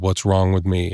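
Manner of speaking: plain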